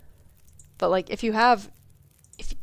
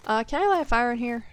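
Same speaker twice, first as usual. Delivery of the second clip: Southern accent slipping out; 3 semitones higher than usual. Real, not acted. Streamer notices her Southern accent slipping out. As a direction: let a little Southern accent slip out as you ask. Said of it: "my accent really popped out with that one".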